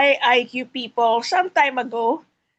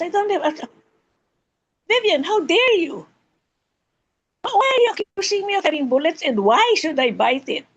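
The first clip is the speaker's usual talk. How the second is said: hammed-up higher indignant protest, fast; mock outrage; 4 semitones higher, faster than usual. Host playing Bill, mock indignant and fast. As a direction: play the offended big guy, half joking.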